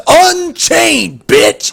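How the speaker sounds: imitating a cocky player's put-down; cocky taunt repeated. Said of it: "He was so cocky when he said it".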